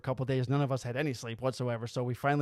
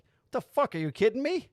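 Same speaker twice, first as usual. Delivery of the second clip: high, outraged disbelief; mock-furious buddy venting; pissed-off friend; 9 semitones higher than usual. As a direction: yell it like you can't believe this place. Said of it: "so my buddy Mark was pissed".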